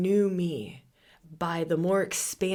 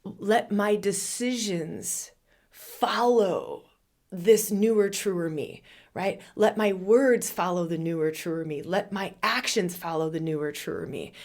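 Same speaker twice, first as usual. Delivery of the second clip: mantra recitation. Acted. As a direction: intone each line like a prayer.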